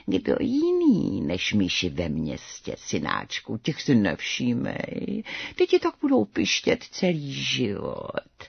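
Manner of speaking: slow, low, soft mother cat; calm the kitten down slowly; soothing mother cat. Acted.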